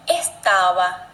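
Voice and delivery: teacher models the Spanish B in estava. Shown as a demonstration. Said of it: "Eu vou falar duas vezes a palavra".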